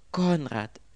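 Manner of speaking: high, loud wail. A narrator's reading. Girl laments as Conrad is arrested, wailing. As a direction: wail the name, falling at the end. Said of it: "jammerte das Mädchen".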